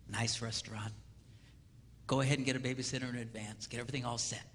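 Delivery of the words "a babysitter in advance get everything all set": soft unvoiced secret; confiding whisper to the men. Real, not acted. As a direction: let them in on the trick quietly. Whispered advice aside.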